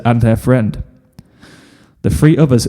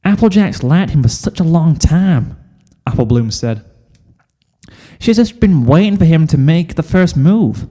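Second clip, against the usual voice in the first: lightly pitched-up Apple Bloom; 5 semitones higher than usual. Acted. Apple Bloom voiced high.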